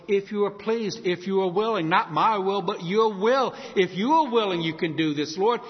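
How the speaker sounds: building pleading prayer; earnest pleading prayer. Shown as a demonstration. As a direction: plead humbly but fervently. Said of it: "take that word please".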